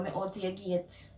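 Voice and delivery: relaxed Jamaican Patois line. Shown as a demonstration. Telling a friend she has arrived, in Jamaican Patois. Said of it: "how you would translate the words".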